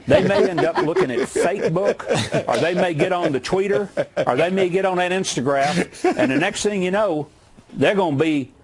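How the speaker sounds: hammed-up Southern accent, jokingly clueless; mock Southern accent. Former governor teasing Democrats about the interweb, mock Southern accent. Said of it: "you threw on that Southern accent pretty good".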